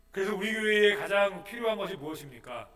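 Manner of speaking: usual speaking voice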